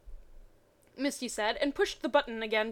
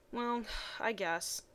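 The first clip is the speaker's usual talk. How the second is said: slow, softer reluctant sigh; 6 dB quieter, slower than usual. Acted. Ash reluctantly agreeing to the group plan, sighing. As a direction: grudgingly give in. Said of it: "Ash said, sighing".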